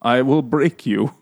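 barbarian. Retold or imitated. Mocking barbarian character.

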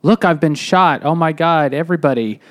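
mock dramatic cry, then fading back down; fake melodrama. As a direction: overact being shot for the crowd. Simon faking being shot.

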